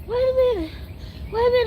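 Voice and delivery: high, breaking through laughter; trying to talk while cracking up; laughing. Real, not acted. Laughing while asking to pause.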